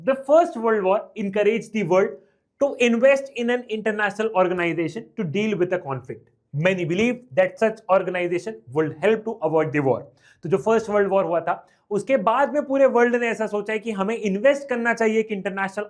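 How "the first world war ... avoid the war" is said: reads the question out word by word, very slowly; very slow, deliberate exam reading. Acted. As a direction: dictate it slowly to the class.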